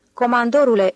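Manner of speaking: lightly acted delighted exclamation; exclaiming. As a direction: call out his name in glad surprise. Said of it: "exclamă el".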